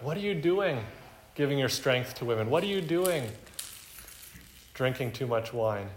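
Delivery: scolding mother. Retold or imitated. Preacher imitating a nagging mother scolding her son. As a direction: nag him like a disapproving mom. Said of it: "it sounds like the mother's coming".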